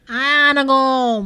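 put-on loud, drawn-out toddler slur; Lil A. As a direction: blur the words into one long little-kid wail. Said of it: "He kept saying".

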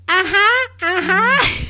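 lightly voiced old lady humming yes; mock grandma. Grandma answering her teen granddaughter without understanding, mild voice. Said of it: "And she goes".

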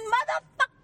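sudden loud high outburst; shocked angry yell; furious curse. Retold or imitated. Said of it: "I said".

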